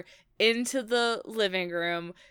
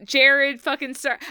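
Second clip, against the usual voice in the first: ordinary talk, nothing marked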